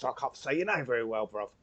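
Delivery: half-hearted London geezer voice; a light London lilt on every word; London accent. Acted. Player stumbling over a mage's name in a London accent. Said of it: "Not in this accent".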